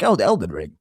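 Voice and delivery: lightly voiced mob boss; a hint of mobster impersonation; Tony Soprano. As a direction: toss off a light mobster imitation. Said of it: "like Tony Soprano being like".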